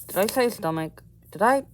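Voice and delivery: high, loud startled double-take; surprised self-correction. Real, not acted. Realizing he said the wrong word, surprised and loud. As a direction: catch yourself in disbelief. Catching his own slip.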